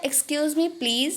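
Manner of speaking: very slow, drawn-out demo; Hindi: बहुत धीरे खींचकर; very slow model phrase. Shown as a demonstration. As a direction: stretch it out for learners. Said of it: "और ये क्या था".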